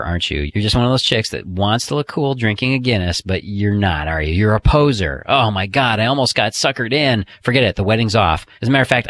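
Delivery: mock-accusing playful tease. Shown as a demonstration. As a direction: tease her like she's let you down. Demo teasing line to woman.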